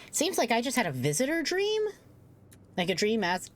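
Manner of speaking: talking through hiccups; with hiccups breaking in; hiccuping. Real, not acted. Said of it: "sorry, I'm hiccuping".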